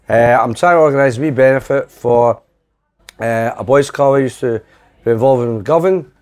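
lightly voiced Fergie on an answer machine; Alex Ferguson impression. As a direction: leave a polite voicemail as Fergie. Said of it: "This voice goes".

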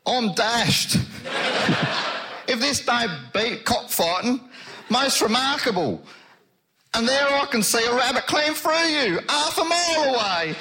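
put-on amazed Marvel in a light Black Country accent; Marvel, impressed by the Invisible Man, in a light Black Country accent. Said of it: "Mister Marvel is impressed".

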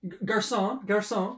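loud call across the restaurant; calling the waiter. Acted. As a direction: summon the waiter with a snap. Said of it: "Do not snap".

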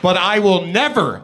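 NEVER punched hard and loud; shouty capitals on "never"; all caps. Retold or imitated. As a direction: hit "never" like it's written in capitals. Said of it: "all caps".

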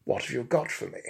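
pompous and over-pronounced; Bunfrey's tones. Acted. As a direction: ask like a lofty expert. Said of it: "my honeyed, liquid, and highly well-pronounced tones".

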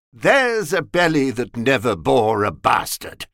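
lightly mock a coarse old gossip; mildly voiced comic crone; droll Mother Grogan mimic. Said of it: "exclaiming with an admirable droll mimic of Mother Grogan".

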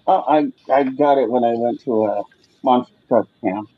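talking around a wad of dip; low, muffled through a mouthful; mouth full of dip. Real, not acted. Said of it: "trying to not gut my dip that I had in my mouth".

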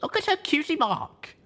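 high horrified cry; horrified hiss. A narrator's reading. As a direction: stress on her, full of horror. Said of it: "I hissed".

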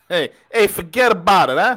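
tossing off a Brooklyn wiseguy line; Brooklyn accent. Retold or imitated. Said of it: "Brooklyn accent".

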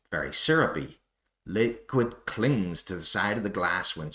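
hammed-up North American wine critic voice, sniffing and judging; bad North American accent. Irish host reading an American wine review aloud, mock North American accent. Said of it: "my attempt at a North American accent".

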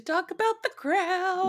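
high, drawn-out excitement; excited. Real, not acted. Host telling listeners about The Crown, gushing excitement. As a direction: gush it, stretching the words. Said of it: "We are so excited".

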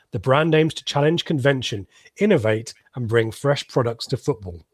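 salesman voice. Acted. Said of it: "I'm gonna do my kind of salesman voice".

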